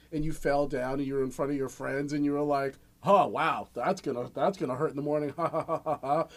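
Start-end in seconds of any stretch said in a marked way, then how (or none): 3.0-6.3 lightly voiced tough guy with a forced laugh; mock bravado through pain; big tough guy voice. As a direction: play it tough and laugh off the hurt. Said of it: "You put on your big tough guy voice".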